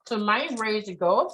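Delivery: talking while chewing; words around a bite of pasta; mouth full. Real, not acted. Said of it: "I'm still chewing, sorry".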